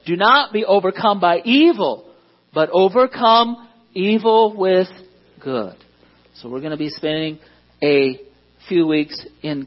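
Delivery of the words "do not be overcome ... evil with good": unison scripture recital. Real, not acted. Pastor leading the congregation in reciting Romans twelve, measured recital. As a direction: lead the room through the memory verse together. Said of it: "you can say it with me".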